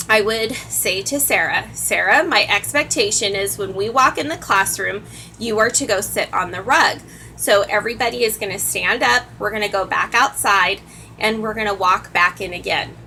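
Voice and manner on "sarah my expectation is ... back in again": calm, firm. Shown as a demonstration. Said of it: "you just say that in a calm, firm, firm voice".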